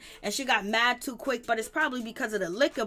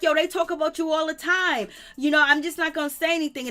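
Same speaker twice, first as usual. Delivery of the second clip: imitating Boogie; 5 semitones higher, 4 dB louder than usual. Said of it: "he was like".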